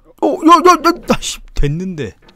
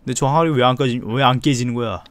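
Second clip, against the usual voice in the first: normal talking voice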